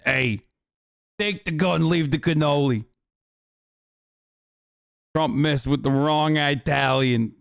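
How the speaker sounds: lightly put-on Italian American wise guy; a touch of mock mobster Italian American; Italian American accent. Streamer quoting mob lines in a mild Italian American accent. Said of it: "I'm doing an Italian American accent".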